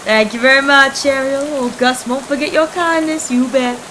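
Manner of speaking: a carefree hobo shrugging off the rain; easygoing hobo Gus. Acted.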